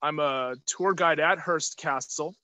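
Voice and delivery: muffled behind a mask; talking through a face mask. Real, not acted. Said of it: "I will be wearing my mask for the duration of the video".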